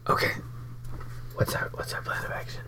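hushed whisper. Pretend. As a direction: whisper so nobody hears.

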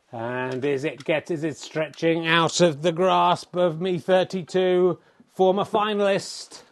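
hushed TV snooker commentator; snooker commentary. Acted. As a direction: call each shot like broadcast snooker.

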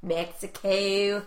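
drawn-out Mexico. Shown as a demonstration. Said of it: "Why can't I say Mexico?".

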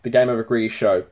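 talking through a burp; words pushed out on a burp. Real, not acted. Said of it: "having a little burp here".

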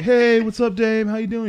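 put-on high, eager kid greeting; eager nerdy kid. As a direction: greet him like a keen kid. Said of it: "he's like".

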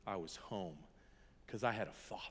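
soft, breathy whisper of being home; hushed whisper. Real, not acted. Preacher recalling finding the Father, hushed whisper. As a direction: let it fall to a whisper, overwhelmed. Tender climax of healing story.

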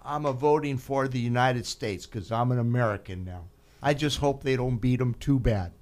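put-on light Italian accent, mom's voice; imitating mom's Italian accent. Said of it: "in her Italian accent".

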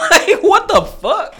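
loud, very high-pitched outburst; baffled cry with laughter close behind; acted-out disbelief. Acting out his baffled reaction.

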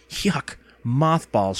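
slow, drawn-out revulsion; disgusted cry. A narrator's reading. Girl smells mothballs in closet, drawn-out disgusted cry. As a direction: drag out the yuck in distaste. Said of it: "she cried".

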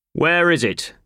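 sharp, high, loud bark of a demand; impatient boss barking at his clerk. A narrator's reading. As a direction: snap the question at him like an angry boss. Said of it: "he barked".

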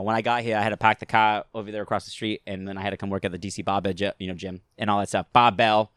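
casual Boston patter, R's dropped; Boston accent. Shown as a demonstration. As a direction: ramble like a Boston local. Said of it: "you can sound like you're from Boston".

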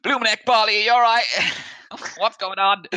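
high, loud, frantic halfling voice; halfling owner rushing out to her dog, high and loud; worried dog owner. Acted. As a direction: burst in, shrill with worry for your dog. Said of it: "runs out and goes".

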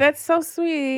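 slow, drawn-out mock sweetness; badly faked affection. Replying to a friend's I love you, badly faked sweetness. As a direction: stretch out a half-hearted thanks. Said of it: "She couldn't even fake it".

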